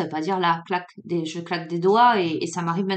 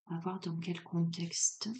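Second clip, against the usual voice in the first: quiet aside; 2 semitones lower, 13 dB quieter than usual. Real, not acted. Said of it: "muttered while drawing cards".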